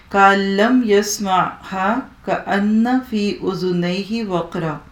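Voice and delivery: slow, measured Arabic recitation; Quranic recitation. Shown as a demonstration. Teacher recites the verse slowly to her students. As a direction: draw out each word as in tilawat.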